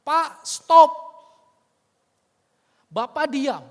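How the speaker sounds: loud, high furious rebuke; angry outburst. Retold or imitated. Son cuts off the killer in fury. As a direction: cut him off in anger. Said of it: "begitu kesal, menahan marahnya".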